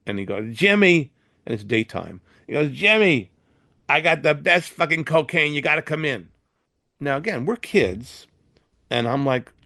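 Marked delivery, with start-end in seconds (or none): 0.6-1.1 higher, louder call over the talkback; stoned star calling his friend in from the booth, loud; drunken loud call. Retold or imitated. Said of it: "he's obviously drunk and stoned". 2.7-6.3 put-on drunken excited invite. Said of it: "he's obviously drunk and stoned".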